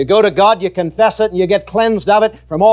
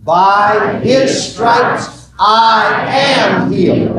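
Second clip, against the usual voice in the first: "By his stripes I am healed" shouted, drawn out; slow shouted confession; much slower than usual. Shown as a demonstration. Preacher shouting the confession with the congregation. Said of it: "say this with me".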